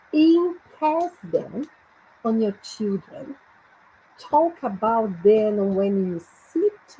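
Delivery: very slow, drawn-out verse reading; deliberate, spaced model reading in English; teacher's English read-aloud. Shown as a demonstration. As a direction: spell out each phrase slowly for learners. Repeats verse slowly for learners.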